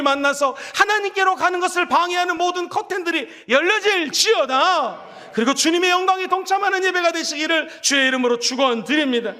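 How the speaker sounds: preacher declaring over the congregation; fervent preaching. Acted. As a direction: build to a full proclamation. Preaching climax.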